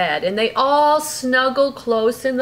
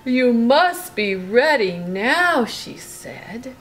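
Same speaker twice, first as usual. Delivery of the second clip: lively bedtime storybook reading; reading to a child; 3 dB louder than usual. A narrator's reading. Parent reading a bedtime story to Brooklyn, lively. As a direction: read it like a bedtime story to a little one. Reading picture book aloud.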